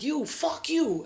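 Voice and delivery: high, drawn-out mock heckle; drunken cussing out. Drunk woman cursing people in the street, drawn-out heckle. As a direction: toss it at passers-by, slow and high. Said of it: "I'm, like, saying fuck you to people".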